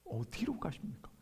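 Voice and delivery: hushed, awed whisper; whispered question. Acted. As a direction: whisper it as a fearful disciple. Peter's question, voiced as whisper.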